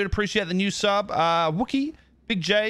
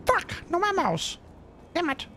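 excited yelling; 10 semitones higher, 6 dB quieter, slower than usual. Real, not acted. Gaming frustration.

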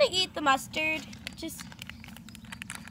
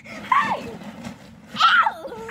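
sharp yelp of pain; shout; 10 semitones higher, 4 dB louder than usual. Real, not acted. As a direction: yell out in protest. Tomato sauce gets in hair.

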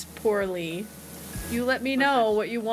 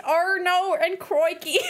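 higher mock Australian catchphrases; Aussie accent; 5 semitones higher than usual. Streamer admitting their limits, mock Aussie catchphrases. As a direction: quote them in hammed-up Aussie. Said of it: "that's the only way I can do it".

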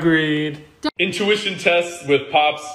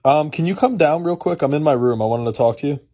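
yelling across the room; 4 dB louder than usual. Real, not acted. Calling dad from upstairs.

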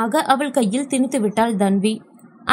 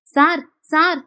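pleading; 5 semitones higher, slower than usual. A narrator's reading. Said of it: "என கெஞ்சியபடி".

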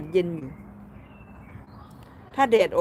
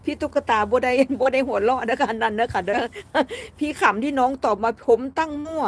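higher voice bubbling with real laughter; amused, laughing; 4 semitones higher than usual. Real, not acted. Streamer tickled by viewer's answer, talking through laughter. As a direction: apologise through giggles.

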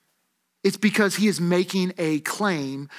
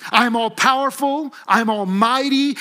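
raised, emphatic voice of God; emphatic declaration; 5 semitones higher, 4 dB louder than usual. Acted. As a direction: declare it firmly, as God to Moses. God declaring himself to Moses.

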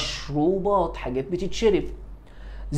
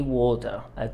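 British accent; 4 semitones lower, 6 dB quieter than usual. Shown as a demonstration. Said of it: "تقولها بريطاني".

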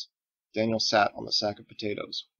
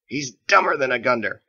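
sly joke; 3 semitones higher, 8 dB louder than usual. Acted. Winking joke.

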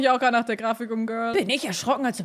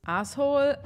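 normal talking voice

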